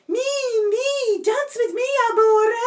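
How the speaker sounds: high, loud ladies calling; crying out. Acted. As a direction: call after him as the ladies. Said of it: "cried the ladies".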